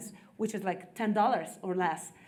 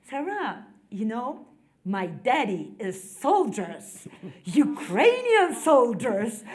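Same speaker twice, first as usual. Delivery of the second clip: put-on a little girl's slow, careful try at a British accent, ending in a laugh; child copying British accent; 5 dB louder, slower than usual. Daughter trying a British accent on her host Sarah. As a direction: lightly mimic a British accent the way a child would. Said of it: "Sarah with British accent ... kind of trying to copy".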